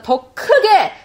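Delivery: loud, high, stretched-out proclamation; emphatic preaching shout. Retold or imitated. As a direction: proclaim it forcefully, drawing out the words. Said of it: "으르렁거리는 그 소리보다".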